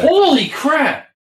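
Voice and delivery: surprised. Real, not acted. Sudden exclamation.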